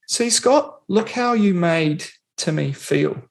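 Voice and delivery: high then slow, a hint of a stern parent; a lightly voiced parent telling off a child; mock parent lecture. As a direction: talk down to the kid slowly.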